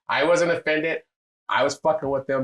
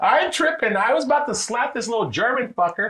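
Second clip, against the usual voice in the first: high, loud laughing concession; retold laughing agreement; 4 dB louder, slower than usual. Conceding to his partner, high-pitched laughing agreement. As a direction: pitch way up, laughing as you give in. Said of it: "I started laughing".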